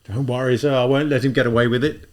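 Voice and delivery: steady, firm reassurance. Acted. A policeman promising to pursue, firm voice. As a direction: promise it firmly. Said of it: "in a firm voice".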